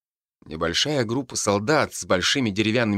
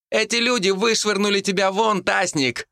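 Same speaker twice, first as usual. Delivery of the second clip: much higher shouted retort; 12 semitones higher than usual. A narrator's reading. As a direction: throw it back at him. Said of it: "крикнула Юдини".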